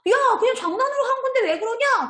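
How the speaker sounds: high-pitched mock squabble; angry retort. Child defending a prank to an upset friend, acted angry. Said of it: "그러면서 같이 화를 내고 싸웠지".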